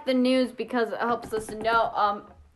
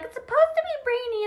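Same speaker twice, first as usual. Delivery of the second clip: weather forecast voice; 13 semitones higher, much faster than usual. Pretend.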